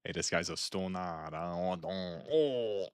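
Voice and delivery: lightly mocked Jersey Italian; a hint of Italian wise guy, ending on drawn-out ohs; Italian-American accent. Streamer riffing on Italian slang, light mock Italian accent. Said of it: "it's the Italian".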